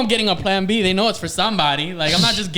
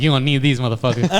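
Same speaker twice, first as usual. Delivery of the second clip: quick, lower-pitched imitation of the clerk; mimicked clerk's put-down; 5 semitones lower, faster than usual. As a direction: toss it off fast, imitating her. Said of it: "she said it like that".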